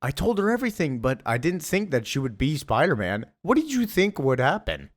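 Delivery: high mock woman's voice; Mary Jane. Wife defending herself to panicking husband, high imitated voice. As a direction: protest in a put-on high pitch. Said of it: "Mary Jane just lies and is like".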